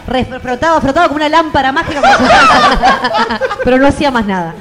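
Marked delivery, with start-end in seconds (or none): 2.1-3.6 high burst of laughter; laughing. Real, not acted. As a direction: break into loud laughter. Laughing at own joke.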